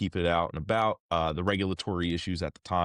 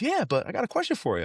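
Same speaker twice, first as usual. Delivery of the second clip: imitating the director; faster than usual. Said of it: "And he goes".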